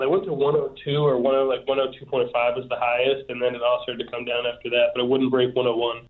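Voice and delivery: stuffy nose from a cold; talking through a blocked nose; nasally voice. Real, not acted. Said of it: "Do you hear the nasally voice?".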